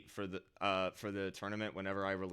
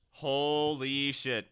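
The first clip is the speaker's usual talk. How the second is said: stunned; 3 semitones higher, 6 dB louder, much slower than usual. Real, not acted. Reading a big donation.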